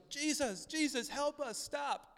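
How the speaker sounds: very high, pleading mock yell; retold yelling. Blind men calling for Jesus to stop, high imitated yelling. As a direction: imitate desperate calls for help. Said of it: "They start yelling".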